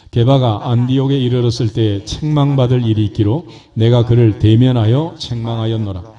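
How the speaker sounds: measured, emphatic Bible reading; scripture reading. Real, not acted. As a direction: read the verses aloud to a congregation, drawing out the phrase endings. Reads scripture aloud to congregation. (또박또박 힘주어 읽는 성경 봉독)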